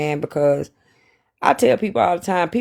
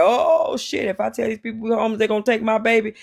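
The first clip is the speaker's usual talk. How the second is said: panicked; 5 semitones higher, faster than usual. Retold or imitated. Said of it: "I panicked".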